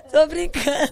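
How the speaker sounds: high, loud, through laughter; laughing reassurance. Real, not acted. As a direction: take back the joke while laughing. Joking after dog remark.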